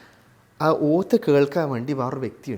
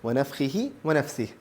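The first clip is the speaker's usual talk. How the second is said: Quranic recitation; slower than usual. Shown as a demonstration. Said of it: "ഇനി മൂന്നാമത്തേത്".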